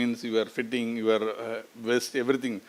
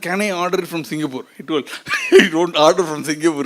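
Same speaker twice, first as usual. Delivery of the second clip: laughing; 3 semitones higher, 5 dB louder than usual. Retold or imitated. Friend's question retold, laughing.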